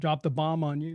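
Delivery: ordinary talk, nothing marked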